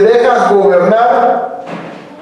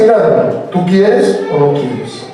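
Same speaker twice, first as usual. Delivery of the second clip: a measured, heart-to-heart challenge; sincere, direct question; 3 semitones lower, slower than usual. Shown as a demonstration. Preacher showing the congregation how to ask a neighbour, sincere and direct. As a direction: ask it slowly and in earnest. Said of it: "pero dile de verdad".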